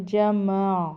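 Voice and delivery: جمع closed on a vowelless throat ain; careful pausal ain. Shown as a demonstration. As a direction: let the ع of جمع be heard from the throat. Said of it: "اس کی آواز کا بہت خیال کرنا ہے".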